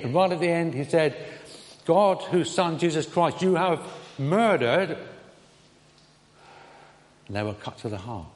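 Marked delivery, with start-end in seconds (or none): 1.8-5.0 raised, deliberate preaching voice; clear proclamation. Retold or imitated. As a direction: proclaim it clearly, slowing on the last word. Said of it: "he proclaimed the gospel very, very clearly".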